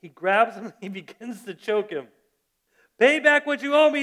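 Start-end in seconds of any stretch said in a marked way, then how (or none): 3.0-4.0 loud, high angry demand; furious demand. Acted. Servant to fellow servant demanding his money, a loud angry shout. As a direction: shout the demand like a creditor choking his debtor. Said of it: "he demanded".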